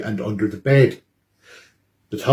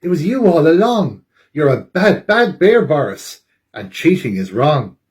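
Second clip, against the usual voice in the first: scolding owl; 3 semitones higher than usual. Acted. Eugene scolds Boris for cheating, lightly voiced owl. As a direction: tell him off like a small owl. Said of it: "says Eugene".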